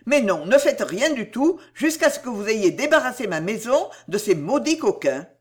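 mild rapture building into urgent orders; lightly acted excitable debtor, pitch rising toward the orders; lightly voiced desperate man, rapturous then urgent. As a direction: gush thanks, then press her with instructions. Harel's grateful, urgent outpouring.

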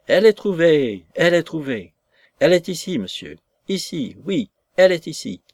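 high-pitched, excited announcement; joyful cry. A narrator's reading. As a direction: cry out the news as if drunk with joy. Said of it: "comme un homme ivre de joie et s'écria".

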